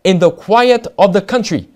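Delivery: "quiet" picked out for emphasis; emphatic "quiet" as the key word; stress on quiet. Real, not acted. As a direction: repeat the phrase, leaning on "quiet". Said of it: "emphasis on the word quiet".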